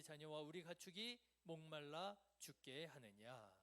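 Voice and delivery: firm, projected reading; scripture reading. Real, not acted. Preacher reading the people's complaint with the congregation, projected and deliberate. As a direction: read the verse out for all to follow.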